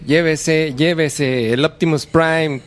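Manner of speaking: rattling off prices like a street vendor; quick Mexico City market hawker patter; singsong market price calls. Retold or imitated. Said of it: "el marchante de, de Tepito".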